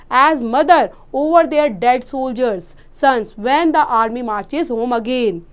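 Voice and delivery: slow, measured reading to students; story read aloud. Acted. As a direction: read the line out very slowly. Reads story line slowly. (धीरे-धीरे कहानी का पाठ)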